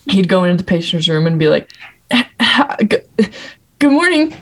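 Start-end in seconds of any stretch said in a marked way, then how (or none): 2.1-4.3 stammering resident. Retold or imitated. Imitating awkward resident stammering.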